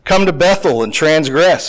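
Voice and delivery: sarcastic. Acted. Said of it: "verse four is very sarcastic".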